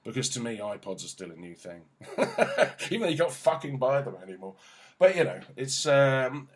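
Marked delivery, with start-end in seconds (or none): 2.2-4.5 real laugh spilling into quick, louder words; amused, high-pitched burst of self-mockery. Real, not acted. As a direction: laugh at yourself while talking. Laughing at sounding old.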